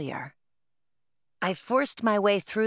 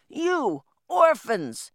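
loud, high, drawn-out roar; shouted; 9 semitones higher, 6 dB louder, much slower than usual. A narrator's reading. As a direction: bellow it slowly over a crowd. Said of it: "he shouted".

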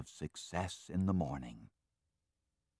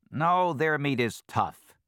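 scheming fox; 8 semitones higher, 7 dB louder than usual. Acted. Fox answers the weasel.

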